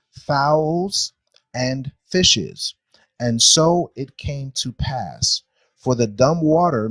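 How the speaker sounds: slow, deliberate verse reading aloud; scripture reading. Acted. Teacher reading creation verses to a class, measured scripture reading. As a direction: read it out solemnly, phrase by phrase.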